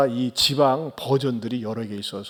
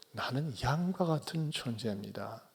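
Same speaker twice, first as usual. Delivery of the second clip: soft quote; 12 dB quieter than usual. Shown as a demonstration. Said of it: "다른 말로 하면요".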